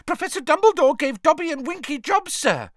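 high, loud, excited elf squeal; squealing house elf. A narrator's reading. Dobby voiced as house elf.

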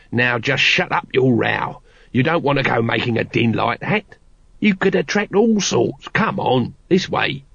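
nagging, wary street guard; lightly voiced grumbling watchman. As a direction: scold the recruit and hustle him along. Nobby hurries Carrot away.

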